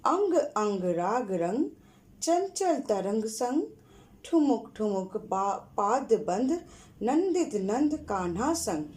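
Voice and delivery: slow, rhythmic rhyme reading. Shown as a demonstration. Teacher repeating the rhyme slowly for the class. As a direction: chant it again slowly for pupils to follow. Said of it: "फिर से एक बार पढ़ रही हूँ, सुनो।".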